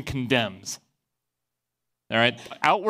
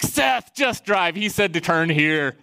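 retold peer pressure, pitched up at the start; egging on a friend, imitated; urging the driver; 2 semitones higher, slower than usual. Friends pushing Seth to just drive, urging.

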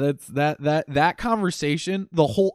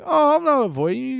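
Ignatz voice; 10 semitones higher than usual. Retold or imitated. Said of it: "He's like".

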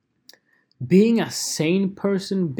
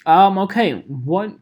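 put-on clueless teen; 3 dB louder than usual. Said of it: "And the teenager goes".

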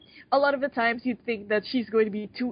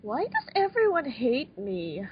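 mock self-pity; 4 semitones higher than usual. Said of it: "she keeps on wondering".

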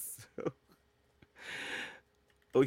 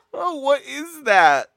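much higher, louder, slow, stunned question; shocked; 11 semitones higher, 11 dB louder, much slower than usual. Real, not acted. Host sees the photo, stunned loud question. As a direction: gasp it out at the picture.

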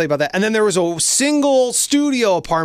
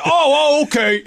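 high mock surprised agreement; sudden calm; 10 semitones higher, 4 dB louder than usual. Husband calms once told where Devin is, high mock surprise. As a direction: drop the rage like flipping a switch. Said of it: "He's like".

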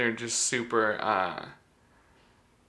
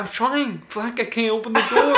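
high, loud protest edged with laughter; retold frantic yell; 10 semitones higher, 8 dB louder than usual. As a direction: re-enact a flustered shout at a stuck door. Retelling panicked struggle with locked door.

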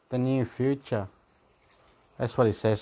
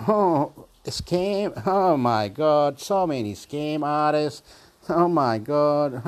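mock exclaim; 2 semitones higher, slower than usual. Real, not acted. Exclaiming about scam artists.

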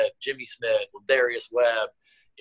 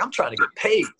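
mock player voice; 10 semitones higher than usual. Coach imitating Jimmy shrugging off legacy, high mock voice. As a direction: imitate the player in a much higher, cocky voice. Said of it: "He's like".

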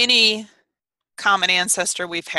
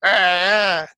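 deeper normal "ah", louder; low plain "ah"; 5 dB louder than usual. Retold or imitated. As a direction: drop back to a full low voice. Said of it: "instead of".

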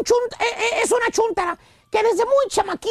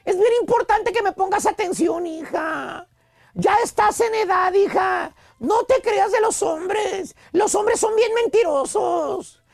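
protective mother. Acted. Mother warning her daughter about men, protective mock lecture. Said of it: "protegiéndola".

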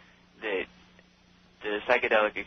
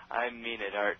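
over the phone. Real, not acted. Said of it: "All right, no, louder".

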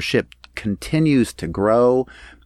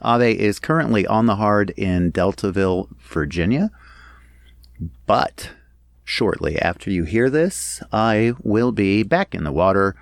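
echoey. Real, not acted. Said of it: "If I sound a little echoey today".

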